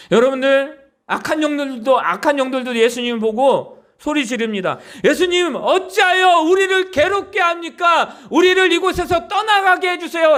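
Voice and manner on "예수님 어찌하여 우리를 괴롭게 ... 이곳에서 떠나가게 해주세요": raised, pitched-up mock shriek; lightly voiced demons crying out; evil spirits screaming. Preacher voicing evil spirits begging Jesus, raised mock shriek. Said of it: "라고 그렇게 소리 지릅니다".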